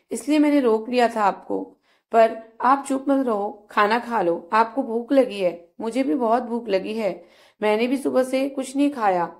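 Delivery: lightly voiced Yuvraj, gently coaxing and begging; pleading young man. Yuvraj coaxes Sheetal to eat.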